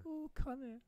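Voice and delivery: high, teasing Irish lilt; slightly Irish. Pretend. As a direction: coo it in a light Irish accent. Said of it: "That was Irish".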